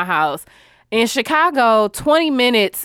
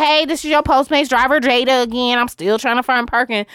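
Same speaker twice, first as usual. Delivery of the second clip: imitating the driver; 2 semitones higher than usual. Mimicking the delivery driver calling about parking, light sweet voice. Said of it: "She was like".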